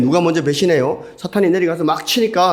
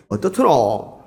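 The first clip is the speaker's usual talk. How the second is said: Gyeongsang dialect; slower than usual. Acted. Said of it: "경상도 말로 하는 거죠".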